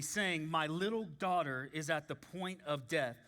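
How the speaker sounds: measured, solemn Bible reading; slightly slowed pulpit reading; scripture reading. Real, not acted. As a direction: read the passage aloud with deliberate phrasing. Reads scripture aloud.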